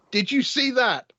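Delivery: high-pitched astonished cry, mid-story. Acted. Game master voicing a gobsmacked onlooker, astonished. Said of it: "opens his mouth to say".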